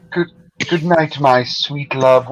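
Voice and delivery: lightly mimicked tender goodnight; slow down on a teasingly sweet farewell; mock lovey-dovey imitation. Teasing a co-host's romantic sign-off, mock tender. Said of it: "And you sounded like that?".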